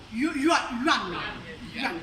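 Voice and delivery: "yuan" said slowly, drawn out in a mock Chinese accent; Chinese pronunciation. Shown as a demonstration. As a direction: sound out "yuan" carefully like a Chinese speaker. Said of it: "Excuse-moi l'accent chinois".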